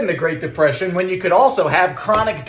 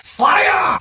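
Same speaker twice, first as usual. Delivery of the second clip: cheery call; 12 semitones higher than usual. Acted. Calling out as the oven starts.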